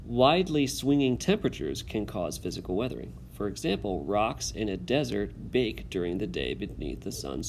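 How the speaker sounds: steady classroom read-aloud. Acted. Teacher reads text aloud.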